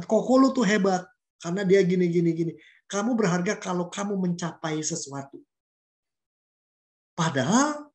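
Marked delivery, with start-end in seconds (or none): 0.0-2.5 mock bragging parent. Parent comparing the children, proud and pushy. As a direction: brag about the older son to the younger. Parent praising older brother.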